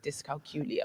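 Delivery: "dyscalculia" said as dys-cal-KYOO-lia; "dyscalculia" repeated with the misplaced long KYOO; mispronounced -CULIA. Shown as a demonstration. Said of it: "that's how you know I'm African".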